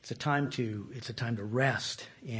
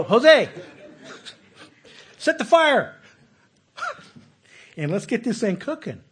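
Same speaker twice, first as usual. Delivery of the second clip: higher, louder priest calling out orders; bossy temple priest; 9 semitones higher, 9 dB louder than usual. Acted. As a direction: call the helpers across the temple court. Voicing a temple priest at work.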